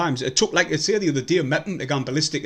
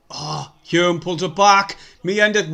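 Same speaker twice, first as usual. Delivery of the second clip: excited; 4 semitones higher, 6 dB louder, slower than usual. Real, not acted. Fan watching a chance in the box.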